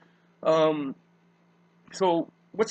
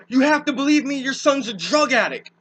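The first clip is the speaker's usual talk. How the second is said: mock pleading yell; 5 semitones higher, 3 dB louder than usual. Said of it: "something yelling, screaming".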